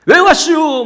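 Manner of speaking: high, loud sobbing protest. Retold or imitated. Boy crying in his mother's arms, sobbing protest. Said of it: "그렇게 막 엉엉".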